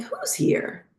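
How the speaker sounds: a breathless whisper, stunned; whispered disbelief. Retold or imitated. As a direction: whisper it as if you can't believe it. Retold reaction to medium.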